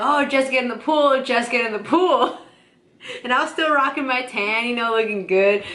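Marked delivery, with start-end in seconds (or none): 0.0-2.4 imitated coaxing. Friends urging her to swim.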